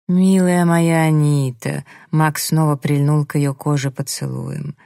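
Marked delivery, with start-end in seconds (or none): 0.1-1.8 slow, drawn-out term of endearment; ardent endearment.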